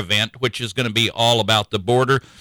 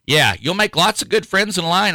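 higher, wry repeat with a grin; 6 semitones higher than usual. Real, not acted. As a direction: say it again with ironic amusement. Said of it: "repeated after laugh".

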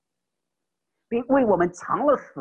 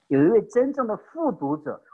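emphatic; 4 semitones higher, 3 dB louder than usual. Real, not acted. Repeated phrase, now raised.

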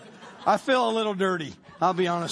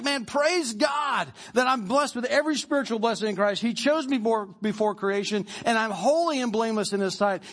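fired-up Paul. Retold or imitated. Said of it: "He's fired up about it".

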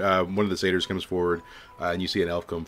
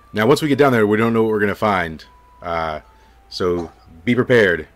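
Hawkins warning; 8 dB louder than usual. Acted. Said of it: "and he says".

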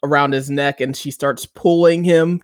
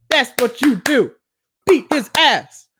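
excited cheering; 9 semitones higher than usual. Retold or imitated. Cheering Ruby on.

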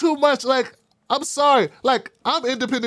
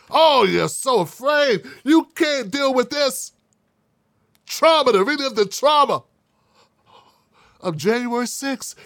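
mock pity; 3 semitones higher than usual. Vlogger mocking viewers who fear the date, sarcastic.

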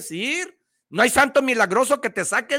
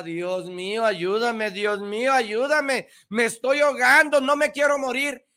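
mock drowning plea; 4 semitones higher than usual.

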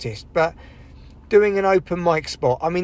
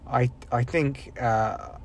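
whispered; 2 semitones lower, 5 dB quieter, much slower than usual. Real, not acted. Unvoiced musing.

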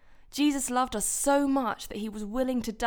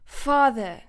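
louder, full-voiced call; crying out; 3 semitones higher, 6 dB louder than usual. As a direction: call out to the father with urgency. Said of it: "Jesus cried".

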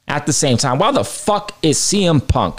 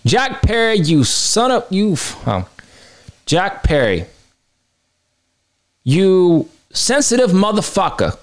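exasperated outburst; 5 semitones higher than usual. Real, not acted. Outburst at Jack Perry.

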